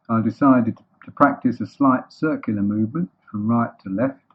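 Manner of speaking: a touch of pompous grumbling; deliberate, halting self-justification; huffy Eeyore. Acted. Eeyore grumbles while revolving.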